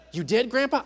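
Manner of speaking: lightly voiced child, amazed; a hint of a wide-eyed grandkid; amazed grandchild. Grandchild amazed at grandpa's story, lightly voiced. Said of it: "to his grandchildren".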